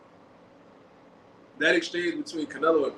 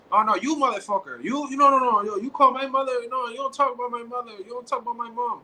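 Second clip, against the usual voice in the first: imitating Canelo yelling, higher pitched; hammed-up furious protest, voice pitched up; mock outraged yell; 5 semitones higher than usual. Vlogger mimicking Canelo shouting at Plant, a hammed-up higher outraged yell.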